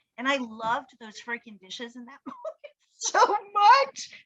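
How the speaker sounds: tearful voice welling up, on the verge of crying. Recounting a recent moment to the other speaker, tearing up. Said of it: "I'm tearing up right now".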